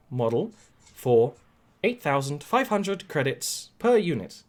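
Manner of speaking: measured, formal droid voice; protocol droid. Acted. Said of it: "the protocol droid blinks up and says".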